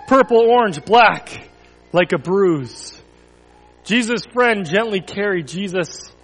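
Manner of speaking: put-on expressive read-aloud for children, rising with the drama; storybook narration. A narrator's reading. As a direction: tell the crucifixion story to the kids. Reads Bible story to children.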